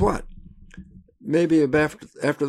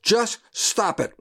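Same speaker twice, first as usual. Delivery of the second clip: slow, high, deadpan just stop it; Bob Newhart's deadpan; 8 semitones higher, slower than usual. Retold or imitated. Man imitating Bob Newhart's psychologist, slow dry deadpan. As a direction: drop it flat and slow like a dry TV shrink. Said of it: "every time he'd say".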